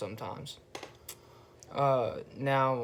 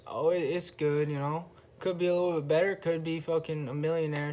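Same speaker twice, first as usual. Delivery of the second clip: enthusiastic; 3 semitones higher than usual. Shown as a demonstration. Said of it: "show 'em a little bit more enthusiasm".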